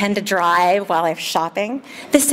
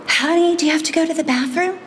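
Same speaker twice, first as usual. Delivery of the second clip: sing-song mom voice; 8 semitones higher than usual. Retold or imitated. Mom asking toddler.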